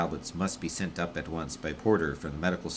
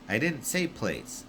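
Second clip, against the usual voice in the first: indignant radio voice; 7 semitones higher, slower than usual. Acted. Wish indignant over radio.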